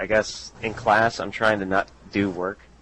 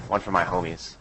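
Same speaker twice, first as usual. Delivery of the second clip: fake tough gangster; 2 semitones lower than usual. Shown as a demonstration. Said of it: "you have to say in the gangsta voice".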